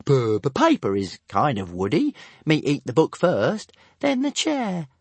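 high stuttering dragon voice; stammering dragon. A narrator's reading. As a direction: explain matter-of-factly. Dragon explains.

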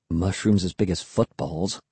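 low, soft murmur. A narrator's reading. Kid lingering behind his sister at giant mushrooms, murmured. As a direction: murmur it low under the breath. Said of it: "I murmured".

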